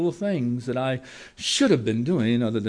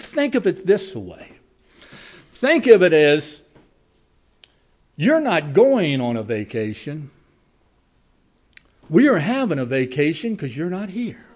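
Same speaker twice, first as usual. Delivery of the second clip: lightly imitated Spanish accent, raised pitch; 2 semitones higher, 5 dB louder than usual. Worker teasing the boss about his vacation, light Spanish accent. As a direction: retell it with a hint of a Spanish accent. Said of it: "with his wonderful Spanish accent".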